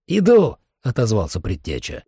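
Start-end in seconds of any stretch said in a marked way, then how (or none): 0.1-0.6 loud, high, brief answer; shouted reply. Acted. Earl answers the summons, loud call back. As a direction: call back at once, raised voice.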